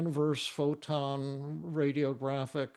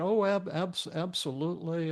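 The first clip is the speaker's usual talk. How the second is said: retold excitement; 4 semitones higher than usual. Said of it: "he got more and more excited".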